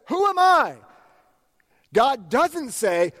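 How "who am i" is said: high, far-off voice of a doubting Moses. Acted. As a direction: ask it as a small, unsure Moses. Moses doubting, acted quote.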